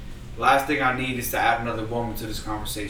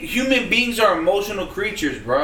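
laughing; 6 semitones higher, 4 dB louder than usual. Real, not acted. Heated podcast argument.

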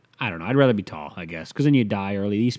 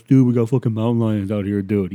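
whiny LA dude; 7 dB louder than usual. Retold or imitated. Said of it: "they're always bitching out in Los Angeles".

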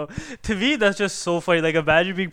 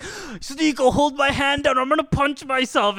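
higher-pitched mock setup voice; Fuzi; 6 semitones higher, slower than usual. Streamer telling his friend what he will do, imitated in a raised voice. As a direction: imitate a streamer announcing his own stunt. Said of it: "there was a video of Fuzi".

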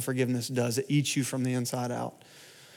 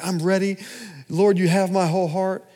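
high, loud eager cry to God; hammed-up eager worship cry; eager prayer; 6 semitones higher, 4 dB louder than usual. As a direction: lift it up like a longing prayer.

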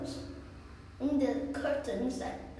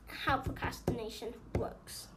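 whispering; 2 semitones lower, 6 dB quieter than usual. Real, not acted. Closing remark whispered.

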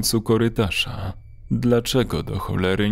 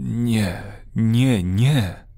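moaned no; much slower than usual. A narrator's reading. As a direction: groan the refusals, rising in volume. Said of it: "jęknął".

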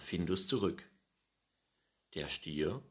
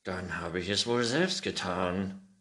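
louder sarcastic retort; snapping back; 7 dB louder than usual. A narrator's reading. Old man retorts to the offended cat, sharp louder snap. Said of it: "zischte der Alte zurück".

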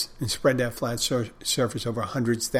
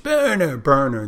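louder, mock crowd shout; mob yelling; 4 semitones higher, 5 dB louder than usual. Villagers demand a witch be burned, mock yelling. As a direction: imitate an angry mob's yell, starting high then dropping. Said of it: "They're all yelling".

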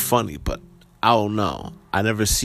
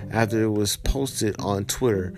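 steady, even article reading; news article read-aloud. Acted. Vlogger reading viewers a viral Central Park story, news read-aloud. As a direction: read out the report evenly.

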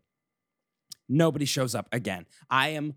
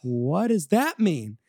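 alarmed confusion; 4 semitones higher, 4 dB louder, slower than usual. Retold or imitated. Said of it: "And I was like".

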